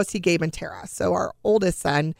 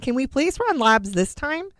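higher-pitched retold request; insistent plea; 6 semitones higher than usual. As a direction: plead with the doctor, pressing the point. Worried mother presses doctor for tests.

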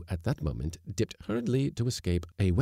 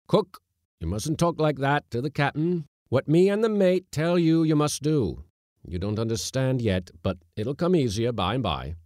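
high, raised voice laying down the law; skipper's rebuke; 9 semitones higher, 7 dB louder than usual. A narrator's reading. Skipper telling the cook how to address the captain, loud rebuke. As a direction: scold firmly, loud and high.

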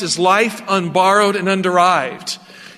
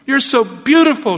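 raised, admiring quoted exclamation; woman's cry; 6 semitones higher, 4 dB louder than usual. A narrator's reading. Preacher voicing the woman cuddling the snake, admiring cry. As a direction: read it as a higher, mildly gushing cry. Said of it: "she cried".

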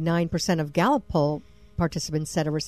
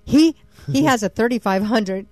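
louder reread of "thirty-five hundred"; rereading "he has a thirty-five hundred" louder to correct; emphatic reread; 3 semitones higher, 6 dB louder than usual. Real, not acted.

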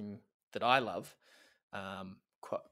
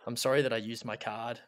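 mock-solemn poem reading. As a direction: read it like a heartfelt eulogy. Reads a mock love poem.

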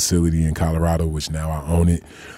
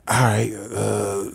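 reluctant grandma; 3 semitones higher, much slower than usual. Retold or imitated. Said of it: "So she like".

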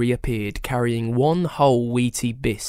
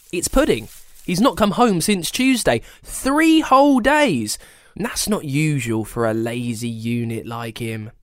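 worried grandma voice; 2 semitones higher than usual. Acted. Gran worried.

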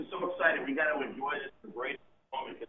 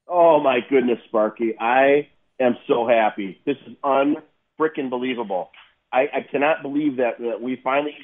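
overjoyed shouting; 13 dB louder than usual. Real, not acted. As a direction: shout it with pure joy. Caller overjoyed about finals.

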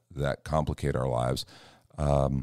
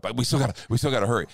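insistent; 6 semitones higher, 4 dB louder, much faster than usual. Retold or imitated. Insisting on hurrying.

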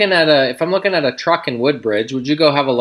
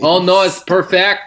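put-on French accent; 4 semitones higher than usual. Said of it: "That voice".

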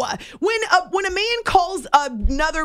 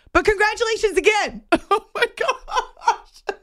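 laughing; 9 semitones higher than usual. Real, not acted. Laughs reading tweet end.

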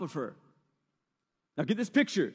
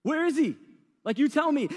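higher and louder, demanding; the king demands a name, mock furious; king furious at the queen's enemy, demanding who; angry king; 5 semitones higher, 4 dB louder than usual. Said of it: "He's like".

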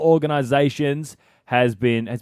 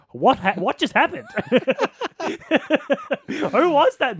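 much higher, startled squeak; mock alarm; 11 semitones higher than usual. Telling co-host about the creepy call, high startled alarm. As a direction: sound freaked out and baffled.

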